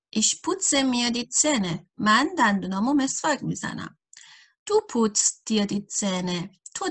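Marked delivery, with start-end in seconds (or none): 0.1-1.9 each word laid out slowly for learners; slow dictation German. Acted. Teacher reading an example sentence to beginners, slowly. 4.7-6.6 each word laid out slowly for learners; slow dictation German. Acted. Teacher reading an example sentence to beginners, slowly.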